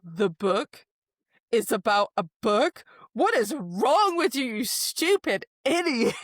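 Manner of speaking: exasperated scolding. Retold or imitated. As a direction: snap at him in disbelief. Nesta scolding Cassian over book.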